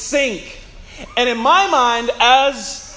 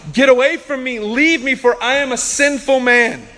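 raised, urgent mock panic; losing his mind; 4 semitones higher, 3 dB louder than usual. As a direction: plead in acted alarm, pitched up. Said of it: "Peter loses his mind and says".

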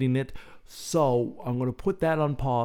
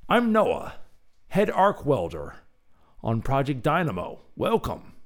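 lightly voiced welder, higher; a friendly workman introducing himself; Noah the welder; 4 semitones higher than usual. Head welder introducing himself to visitors, lightly voiced friendly welder. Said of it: "Rusty Overalls".

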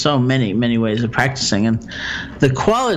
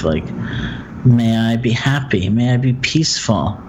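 calm, measured meditation guide with long pauses; guided meditation; 3 dB quieter than usual. Acted. Teacher guiding a listener through loving-kindness phrases, guided meditation. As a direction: guide them gently through it, leaving room for silence.

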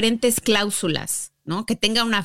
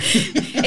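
giggle. Real, not acted. Laughs at forgotten word.

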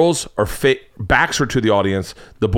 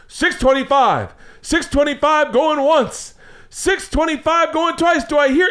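slow, much higher going-once call; auctioneer call; 13 semitones higher, slower than usual. Retold or imitated. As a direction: draw out the tension. Auctioneer calling once, twice.

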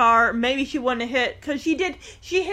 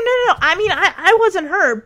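reassuring daughter; 7 semitones higher, 5 dB louder than usual. Retold or imitated. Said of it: "He's like".

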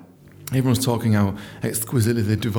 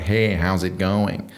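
fake American accent; 4 semitones lower, much slower than usual. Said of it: "American accent, proper fake".

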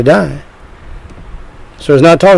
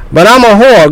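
doubting sinner voice; 7 semitones higher, 4 dB louder than usual. Pretend.

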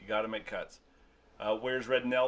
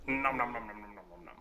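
nom nom eating noises; 4 dB quieter, faster than usual. Acted. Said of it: "Sound effects".

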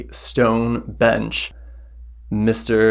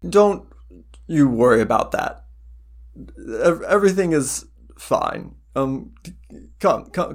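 reassuring priest; 4 semitones higher than usual. Acted.

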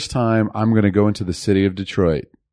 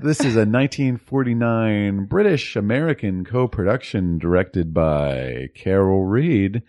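put-on old film narrator. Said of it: "that was my approximation of the memorable opening, opening narration".

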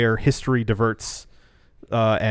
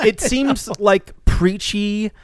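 emphatic; 7 semitones higher, 5 dB louder, slower than usual. Real, not acted. Emphatic rejection of movie.

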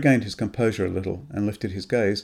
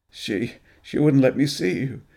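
hoarse; 4 semitones higher than usual. Acted. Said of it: "he said in a hoarse voice".

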